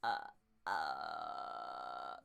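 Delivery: low creaky popping croaks from a clenched throat; grudge ghost croak. Shown as a demonstration. Voice coach demos the grudge ghost croak for students, low creaky pops. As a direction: squeeze the bottom of the throat and pop out deep croaks. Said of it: "Tighten up the bottom of your throat and hear this".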